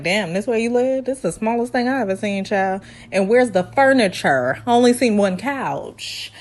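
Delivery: lightly imitated condescension; condescending. Woman judging her date's tiny apartment, lightly condescending. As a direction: belittle it half under your breath. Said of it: "It was so condescending, like".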